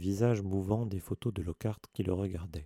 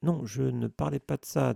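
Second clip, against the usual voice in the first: panicked; 4 semitones higher than usual. Acted. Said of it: "dit Harry affolé".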